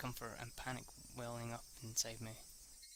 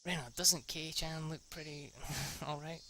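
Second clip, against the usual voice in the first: higher, laughing tease; teasing Mion; 4 semitones higher than usual. Acted. Mion teases Rena about Keiichi, laughing. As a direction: poke fun at him with a giggle.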